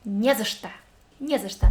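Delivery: не за что run together fast, "незашто"; as one word. Shown as a demonstration. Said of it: "pronounce very briefly ... like one word".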